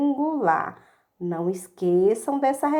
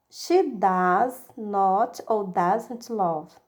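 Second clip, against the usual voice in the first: slow drill; much slower than usual. Shown as a demonstration.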